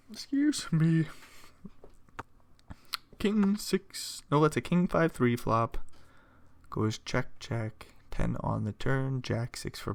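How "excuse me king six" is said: talking through hiccups; words jolted by hiccups. Real, not acted. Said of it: "Got the hiccups".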